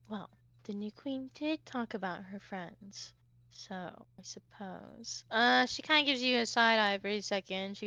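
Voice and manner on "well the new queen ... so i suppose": very soft, sighing, hesitant; sigh, then give in quietly and slowly; reluctant concession. Acted. Sarah reluctantly gives in.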